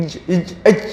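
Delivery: EJ, each one sealed with no breath out; held jim. Shown as a demonstration. Teacher showing that no breath escapes, held jim. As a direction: block the air at the palate on EJ. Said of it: "nafas yang keluar".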